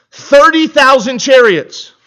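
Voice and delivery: slow, loud emphasis on "Thirty thousand chariots"; weighty emphasis. Acted. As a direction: lean hard on "Thirty thousand". Reading huge enemy number.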